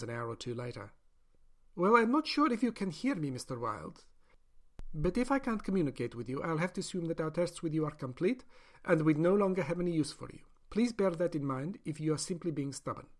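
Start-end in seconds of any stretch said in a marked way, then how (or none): 1.8-13.1 lightly raised, earnest scientist; a doctor justifying her experiment; higher-pitched persuasive doctor; doctor's voice. Acted. Doctor threatens silent prisoner.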